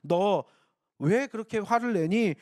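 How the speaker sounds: slow, deliberate, caring question; understanding question. Acted. God asking angry Cain why, slow and understanding. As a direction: ask it slowly, without scolding. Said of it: "뭐 이게 아니에요, 지금".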